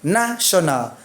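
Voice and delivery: "National" starting with open "nah"; teacher's corrective "National", NAH first; short A in National. Shown as a demonstration.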